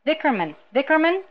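pleading creature, rising to a high question; high-ending alien whine; whining, pleading alien. A narrator's reading. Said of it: "the whining, pleading alien".

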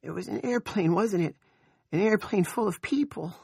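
put-on high childish voice. A narrator's reading. Nori asking what crashed, high childish voice. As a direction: pitch it way up like a child. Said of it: "in a high, childish voice".

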